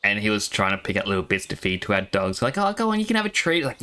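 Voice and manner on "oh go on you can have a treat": coaxing father. Retold or imitated. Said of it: "I immediately saw my father".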